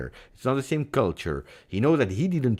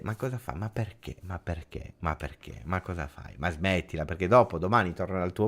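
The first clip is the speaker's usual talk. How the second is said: hushed scolding; 4 semitones lower, 5 dB quieter than usual. Acted. Mock scolding friend in Italian.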